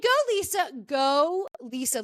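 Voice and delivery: root for her like a fan; cheering. Real, not acted. Cheering on friend Lisa.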